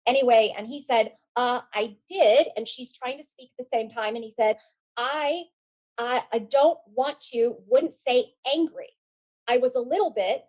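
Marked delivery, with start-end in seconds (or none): 1.3-2.5 slow, measured retold reply; careful, controlled answer. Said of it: "He chose his words really carefully". 5.0-10.4 careful, halting. Retold or imitated. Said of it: "and he pauses".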